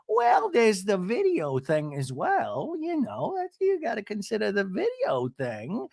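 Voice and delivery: imitating a housewife hinting at the video; mock Shannon voice. Shannon's slip voiced in recap.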